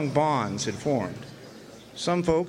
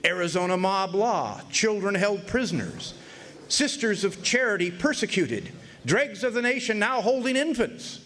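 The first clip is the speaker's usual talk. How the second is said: lightly lifted headline read, one banner line after another; a touch of a newsboy's headline; 5 semitones higher than usual. Retold or imitated. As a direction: announce each line like an outraged front page. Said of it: "the headlines suggested a".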